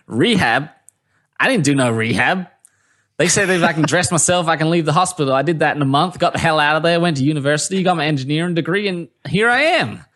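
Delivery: imitated no-nonsense, full-of-beans bloke; Booty. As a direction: rattle it off with cocky, upbeat pride. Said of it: "and Booty's like".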